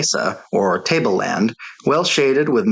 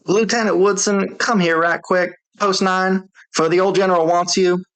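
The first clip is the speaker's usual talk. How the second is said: drawling sentinel; 8 semitones higher than usual. A narrator's reading. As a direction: stretch it out, couldn't care less. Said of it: "drawled out".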